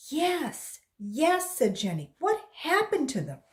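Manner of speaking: put-on high, loud anxious girl voice; a scared child pleading; frightened girl. A narrator's reading.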